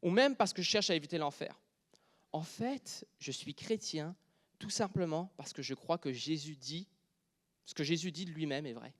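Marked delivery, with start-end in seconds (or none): 2.3-8.9 drops to a soft, hushed preaching voice, nearly whispered at first; hushed confession. Acted. Preacher confiding his faith to the congregation, hushed and soft. Sermon turns to intimate confession.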